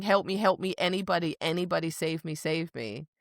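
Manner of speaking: fading plea. Retold or imitated. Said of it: "because she was going".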